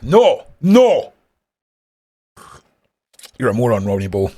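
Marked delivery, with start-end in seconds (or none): 0.0-1.1 high mock no. Real, not acted. Mocking rebuttal, high.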